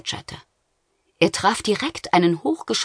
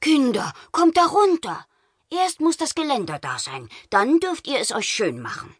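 grandmother calling; 8 semitones higher than usual. Acted. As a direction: call the kids down, then soothe them. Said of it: "als die Großmutter am Fenster erschien".

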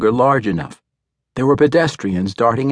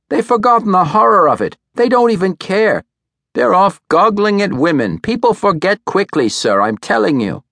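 put-on higher, louder indignant old lady; scolding old woman; 6 semitones higher, 3 dB louder than usual. A narrator's reading. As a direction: rant at the crowd like a granny.

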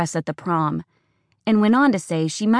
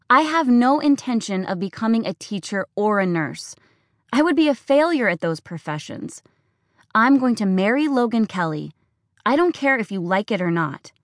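a touch higher, defiant and firm; defiant daughter; 3 semitones higher than usual. Acted. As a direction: fire back a parting shot. Daughter's defiant parting shot.

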